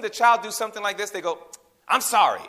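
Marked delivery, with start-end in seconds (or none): 1.9-2.5 child's grudging sorry, lightly acted; mildly mocking a sulky child's apology; attitude-laden apology. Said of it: "they kinda say it with an attitude".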